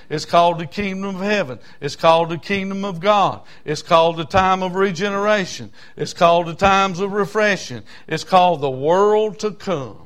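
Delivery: emphatic pulpit list, each title rung out; insistent sermon repetition; rhythmic preaching. Real, not acted. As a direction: preach each item in the same driving cadence.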